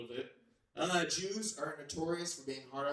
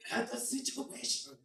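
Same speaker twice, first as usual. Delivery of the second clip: high, loud, slow sermon voice in broken English; preachy parent storyteller; 15 dB louder, much slower than usual. Retold or imitated. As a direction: preach the story of Job like a strict dad. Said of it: "he'd be like".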